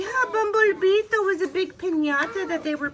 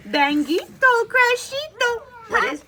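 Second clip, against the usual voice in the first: alarmed mother; 9 semitones higher, 6 dB louder than usual. A narrator's reading. Mama Junebug bursts in.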